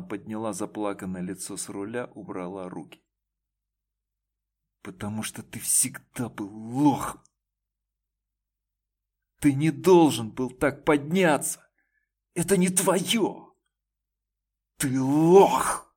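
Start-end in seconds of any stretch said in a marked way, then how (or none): 4.8-15.9 loud, high furious yell; shouting at her ex in rage. A narrator's reading. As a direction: scream it in his face. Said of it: "крикнула она ему в лицо".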